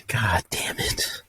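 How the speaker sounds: slow, voiceless muttered curse. Retold or imitated. Reacting to the news his stuff is gone, slow whispered curse. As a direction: breathe the curse out slowly under the breath. Hearing stuff was stolen.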